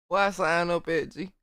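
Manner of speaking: talking through hiccups; words broken by hiccups. Real, not acted. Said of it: "Oh, shit, I got the hiccups".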